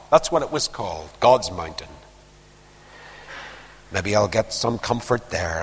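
low, soft, weary resignation; broken servant. Acted. A broken Elijah consoling himself on the way to God's mountain, low and subdued. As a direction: give up, quietly and low, to yourself. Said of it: "this broken servant of God says".

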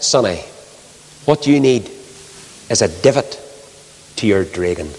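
a passer-by in broad Scots; broad Scottish accent. Retold or imitated. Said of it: "a kite in broad Scots is called a dragón".

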